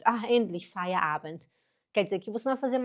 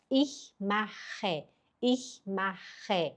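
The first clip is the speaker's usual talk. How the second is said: softer repetition; 6 dB quieter, much slower than usual. Shown as a demonstration. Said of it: "A frase número um seria".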